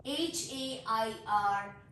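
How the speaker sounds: slow letter-by-letter spelling. Shown as a demonstration. Teacher spelling a word for learners, slow spelling. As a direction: spell it out, a small gap after each letter. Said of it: "letter spell करती हूँ".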